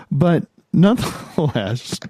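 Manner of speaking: holding back a laugh, slowly; fighting off the giggles mid-sentence; stifled giggles. Real, not acted. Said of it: "I'm trying not to laugh here".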